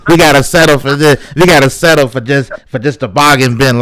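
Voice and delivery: indignant protest. Retold or imitated. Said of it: "I coulda been like".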